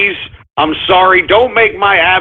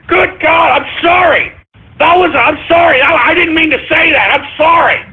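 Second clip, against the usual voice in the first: panicked shouted apology; 6 semitones higher than usual. Acted. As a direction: blurt the sorries out in a panic. Panicked apology after on-air slip.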